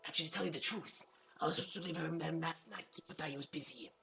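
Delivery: a shy student making excuses; young Argonian woman. Acted. Argonian girl Zolasa voiced.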